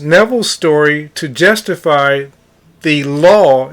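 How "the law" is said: "law" leaned on and drawn out; stress on LAW. Real, not acted. Arguing against the so-called law, stress on "law". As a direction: put firm weight on "law". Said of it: "and I'm stressing law".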